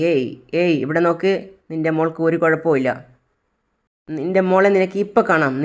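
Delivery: bully her into silence; threatening villain. Acted. Kidnapper threatens the mother.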